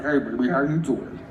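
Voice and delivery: low laid-back dude voice. Shown as a demonstration. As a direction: drop it low and cool like a street smooth talker. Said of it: "if I'm doing a low voice".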